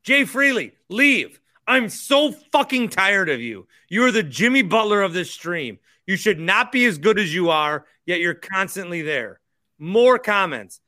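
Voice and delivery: mock angry rant. Joking rant at the same commenter.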